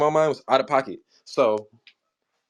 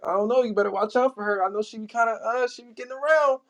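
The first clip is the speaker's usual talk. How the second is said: retold warning; 9 semitones higher than usual. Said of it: "we was already telling him".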